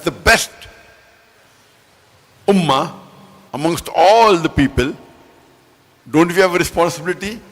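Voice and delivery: measured oratory, weighting the key words; emphatic preaching. Real, not acted. Preacher expounds a Quran verse to the congregation, emphatic preaching. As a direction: preach it out with deliberate, rising emphasis.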